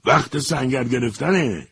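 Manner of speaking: high, slow, delighted call; gleeful shout. A narrator's reading. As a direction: cry it out with joy. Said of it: "با خوشحالی فریاد کشید".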